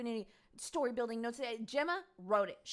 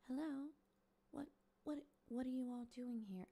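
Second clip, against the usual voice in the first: a light hint of a soft childlike voice, a little higher; 5 semitones higher, 6 dB quieter than usual. Mimicking Gemma greeting police in a mild childlike voice. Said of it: "soft-spoken, almost, like, childlike voice".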